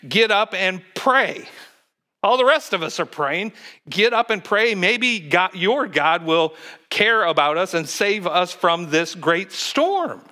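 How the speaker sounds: paraphrased urgent plea. Pretend. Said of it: "He's basically saying".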